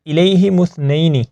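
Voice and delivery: measured recitation for pupils; Quran recitation. Shown as a demonstration. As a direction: recite it carefully as a model. Teacher models the recited phrase. (تلاوت کے انداز میں)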